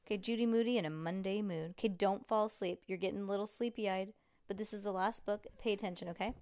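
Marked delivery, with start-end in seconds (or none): none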